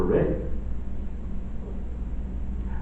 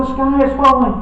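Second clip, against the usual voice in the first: much higher, louder panicked hen cry; panicky Chicken Little; 10 semitones higher, 4 dB louder than usual. Acted. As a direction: squawk it out like a frightened little chicken. The birds cry out together.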